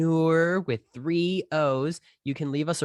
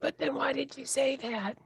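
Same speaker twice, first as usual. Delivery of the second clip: mock indignation; 9 semitones higher, 6 dB quieter than usual. Mock squabble over readiness.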